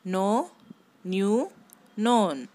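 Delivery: ನೋ, ನ್ಯೂ, ನೋನ್ each begun on a plain N sound; know, knew, known with the K left silent. Shown as a demonstration. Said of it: "ಕೆ silent".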